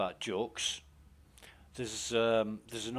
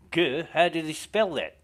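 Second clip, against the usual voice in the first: higher, louder puzzled Australian host; mock-baffled Australian DJ; Australian presenter questioning a caller; Australian accent; 6 semitones higher, 9 dB louder than usual. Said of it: "my Australian accent's shit".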